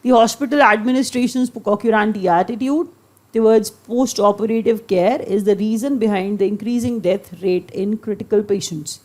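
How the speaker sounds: reads the English sentence very slowly, word by word; slow dictation reading. Shown as a demonstration. Teacher reading an example sentence to students, slow dictation.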